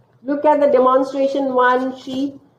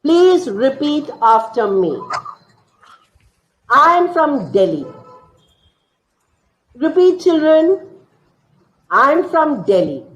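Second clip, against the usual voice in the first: teacher drilling a class; 2 semitones higher than usual. Shown as a demonstration. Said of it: "the teacher is giving the instruction".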